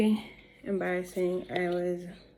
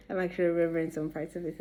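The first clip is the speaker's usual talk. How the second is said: laughing; much faster than usual. Real, not acted. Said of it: "this is so embarrassing".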